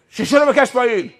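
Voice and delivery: stern command. Retold or imitated. Roadside officer figure to the stopped driver, stern command. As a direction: order it with authority.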